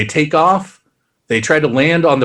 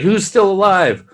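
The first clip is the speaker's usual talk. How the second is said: mock urgent call; 5 semitones higher than usual. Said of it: "and he's like".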